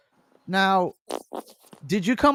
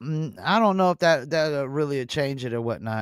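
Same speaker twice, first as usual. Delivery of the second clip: distorted mic; 4 semitones lower than usual. Real, not acted. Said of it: "You sound very distorted".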